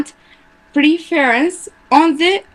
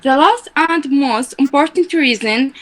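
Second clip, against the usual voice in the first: reading aloud. Real, not acted. Student reads paragraph aloud.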